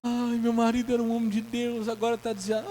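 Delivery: high, whining widow's wail; hammed-up crying wife; mock lament. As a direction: imitate the wife's belated grief. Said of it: "Aí foi chorar".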